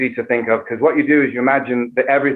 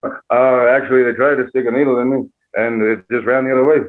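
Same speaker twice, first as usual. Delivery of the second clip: lightly affected half-British actor voice; Johnny Depp. Acted. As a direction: answer as a tipsy, mannered movie star. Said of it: "Johnny, did you get Pfizer or Moderna?".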